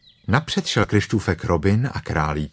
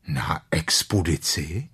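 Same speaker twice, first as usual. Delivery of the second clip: eager; 3 semitones lower, 3 dB quieter than usual. Acted. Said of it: "řekl Pú dychtivě".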